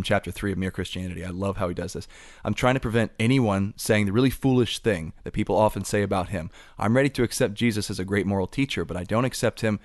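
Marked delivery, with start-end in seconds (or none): 2.4-9.8 measured, emphatic book reading; deliberate recital of a written passage; reading aloud. Acted. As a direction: read the argument out with clear cadence.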